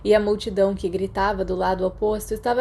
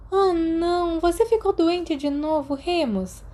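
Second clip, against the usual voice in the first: sympathetic worried question, pitched higher; com simpatia; 9 semitones higher than usual. Acted. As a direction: ask with gentle concern for him. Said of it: "perguntou com simpatia". (pergunta aflita e simpática, mais aguda)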